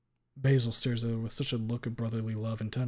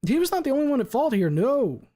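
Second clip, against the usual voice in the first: higher, louder lawyer question; 9 dB louder than usual. Acted. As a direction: ask it like a sharp attorney. Lawyer addresses court.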